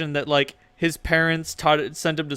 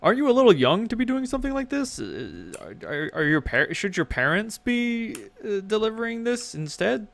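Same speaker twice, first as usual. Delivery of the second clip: orc clerk voice; 8 semitones higher than usual. Acted. Orc clerk repeats after dropout.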